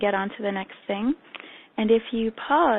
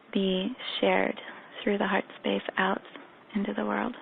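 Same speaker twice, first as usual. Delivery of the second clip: guided meditation. Acted. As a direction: lead them gently into the practice.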